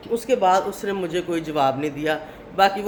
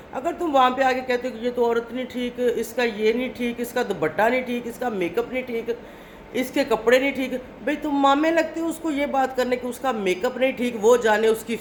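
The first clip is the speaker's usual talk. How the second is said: higher-pitched, mildly indignant telling-off; retold scolding; 4 semitones higher than usual. Vlogger scolding a man who judges women, mild mock anger. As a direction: replay the scolding with raised pitch but no extra volume. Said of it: "تو اس بات پہ مجھے اس غصہ آیا".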